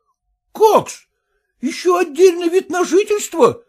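high, outraged, near-tearful cry; shocked exclamation. Acted. Son-in-law hearing of separate residence, high outraged cry. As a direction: gasp it out high in disbelief. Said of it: "воскликнул Порфирий Васильевич".

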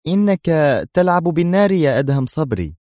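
a woman trying to sound calm; tense. Acted. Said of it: "مفعمة بالتوتر والانفعال". (توتر تحت هدوء مصطنع)

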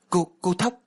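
high, loud stammered cry of shock; jaw-dropped disbelief; stunned gasp. Acted. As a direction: gasp the name as if seeing a ghost. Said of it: "Mình há hốc mồm".

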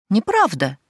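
shrill, loud squealed denial. Acted. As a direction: yelp it out indignantly. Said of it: "взвизгнула Шахразада".

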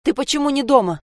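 put-on mother scolding the girl for not being at home; angry scolding. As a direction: snap at the daughter. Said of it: "Ещё злилась".

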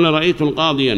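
"رأيت القاضيا" said with the article and a final long a, the form to reject; wrong form. Shown as a demonstration. Teacher to students, showing the wrong form plainly. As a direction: quote "رأيت القاضيا" as the faulty example, stressing رأيت. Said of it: "ما يصلح".

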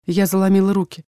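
usual speaking voice

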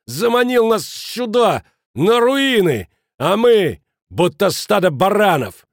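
high, loud, ranting fury; roaring. A narrator's reading. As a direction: rage at the man who cheated them. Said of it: "взревел Кранер". (яростная тирада на крике)

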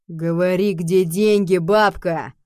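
loud rough demand. A narrator's reading. Second soldier demanding money from the old woman, loud rough demand. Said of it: "подал голос второй".

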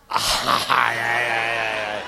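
loud cries of ay; loud wails. Acted. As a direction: wail ay ay ay loudly. Mujer grita de susto. (gritos de ay a todo volumen)

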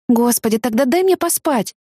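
ordinary delivery

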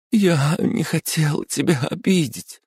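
высоко, сквозь слёзы; давится рыданием; through sobs. Acted. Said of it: "сквозь рыдание ответила она". (плачет, извиняясь перед подругой)

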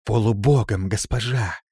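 loud, assured proclamation; firm, confident. A narrator's reading. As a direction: state it with complete certainty. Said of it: "твёрдо и уверенно ответила Раба". (твёрдо и уверенно)

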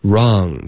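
"Wrong" with the mouth loosened; careful teacher's model of "Wrong"; relaxed mouth. Shown as a demonstration. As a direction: say "Wrong" slowly, lips and jaw relaxed. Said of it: "嘴巴稍微放松一点".

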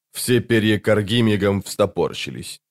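plain reading voice

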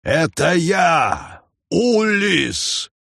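high desperate shout. A narrator's reading. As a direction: yell your name into the jungle. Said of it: "снова прокричал он".

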